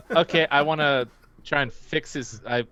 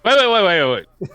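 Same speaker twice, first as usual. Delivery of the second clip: urgent shout; 8 semitones higher, 10 dB louder, much faster than usual. Acted.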